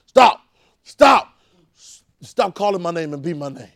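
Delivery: furious yell of stop; Jesus yelling. Retold or imitated. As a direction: yell stop at the nagging caller. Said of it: "he be yelling at me like".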